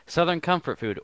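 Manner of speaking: Southern Comfort food pitched high and bright for a joke; high mock announcement. Joking about food to friends, high sing-song. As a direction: pop it up high like a jingle.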